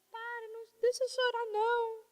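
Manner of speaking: hushed, near tears, as if to her husband; soft and moved. Retold or imitated. To her husband after his prayer, softly tearful.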